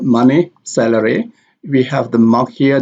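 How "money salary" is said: MONEY and SALARY stressed on their first syllables. Shown as a demonstration. Teacher shows learners word stress, first syllable stressed in money and salary. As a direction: hit MON in money, SAL in salary. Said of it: "Here the stress on money is".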